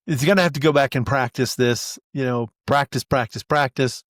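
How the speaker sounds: announcer wrapping up, building to an interview; sportscaster commentary. Pretend. Sportscaster turns to interview Lewis, upbeat announcer voice. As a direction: talk it like a TV sports host.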